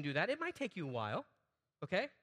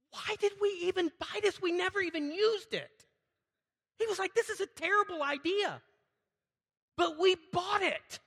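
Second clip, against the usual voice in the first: retelling a friend; 10 semitones higher, 4 dB louder than usual. Retold or imitated.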